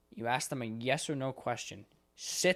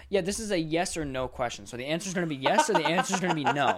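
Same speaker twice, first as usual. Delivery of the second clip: slightly higher, louder, spelling it out; pointed explanation; 3 semitones higher, 5 dB louder than usual. Retold or imitated. Agent telling a caller it is yes or no, pointedly. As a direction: lay it out like talking to a child. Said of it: "I just go".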